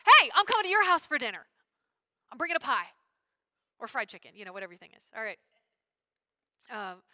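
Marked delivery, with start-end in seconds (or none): 0.1-4.4 loud, high, cheerful hey fading to easy warmth; friendly invitation. Acted. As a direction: invite him like a neighbor bringing dinner.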